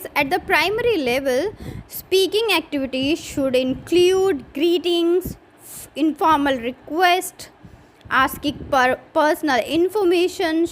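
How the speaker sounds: reading a point out slowly to the class; slow dictation of a course point; slow syllabus reading. Shown as a demonstration. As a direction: dictate it word by word.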